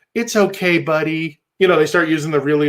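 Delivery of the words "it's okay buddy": mock-soothing, as if to a small child; lightly put-on babying tone; toddler talk. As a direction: coo it with cloying pity. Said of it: "toddler language".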